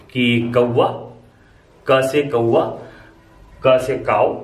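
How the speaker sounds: क in कौवा and काऊ as a plain front k; light k sound. Shown as a demonstration. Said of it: "का की आवाज निकलती है".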